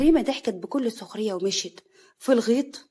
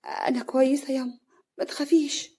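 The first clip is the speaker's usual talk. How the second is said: slightly higher, sad reassurance; mild sadness; 3 semitones higher than usual. Acted. Daughter telling her mother not to worry, mildly sad. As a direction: reassure with a touch of sorrow. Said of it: "هنا بحزن".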